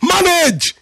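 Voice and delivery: high, strained drill-sergeant shout of the word; military barrack command. Retold or imitated. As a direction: yell the one-word order like a barracks sergeant. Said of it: "the way they say it in the military barrack".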